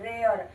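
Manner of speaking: "रेयर" with a slow ay-uh glide; example word rare. Shown as a demonstration. Teacher modelling "रेयर" slowly with the glide. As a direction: draw out the middle of the word. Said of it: "तो ए अ".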